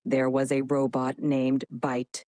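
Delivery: low, dramatic robot voice; robotic voice. Shown as a demonstration. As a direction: speak like a metallic cyborg. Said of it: "Initiating dramatic robotic voice".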